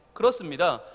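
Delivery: normal talking voice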